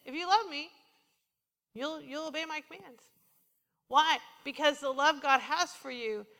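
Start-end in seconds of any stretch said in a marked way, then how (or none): 0.1-3.0 gentle invitation. Shown as a demonstration. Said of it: "Really, it's like this".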